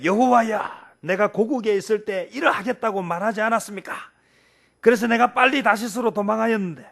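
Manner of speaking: Jonah's angry prayer. Acted. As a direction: read it like a prophet fuming at God. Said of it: "불같이 화를 냈어요".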